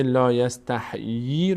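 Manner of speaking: second "یستحیی" said as yas-ta-hee; wrong kasra on H. Shown as a demonstration. Teacher warns students of the error, h carrying ee. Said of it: "دقت کنید که نگید".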